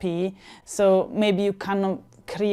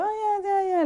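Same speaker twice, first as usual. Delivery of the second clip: imitated Italian reaction; 11 semitones higher, 5 dB quieter than usual. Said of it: "the reaction would have been like".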